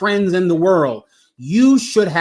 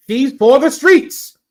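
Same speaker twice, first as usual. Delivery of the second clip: put-on young men's street talk; 5 semitones higher, 3 dB louder, slower than usual. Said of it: "don't the young men talk like this".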